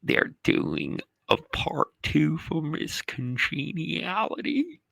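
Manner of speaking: manager on the phone. Retold or imitated. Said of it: "He goes".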